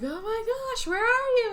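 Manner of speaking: high, desperate calling; half-panicked call into the trees; man chasing glimpses in the woods, worried call; frantic search. Retold or imitated.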